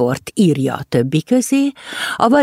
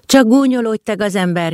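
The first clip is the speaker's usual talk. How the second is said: groaning; 6 semitones higher than usual. Acted. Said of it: "nyögte a farkas".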